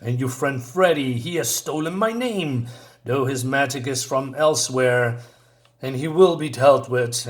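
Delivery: mildly acted indignation, pitch jumping about; angry wizard. Wizard rebuking Billy in a retelling, moderately angry. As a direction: rebuke them with bursts of emphasis, then drop away. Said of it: "this guy's an angry dude".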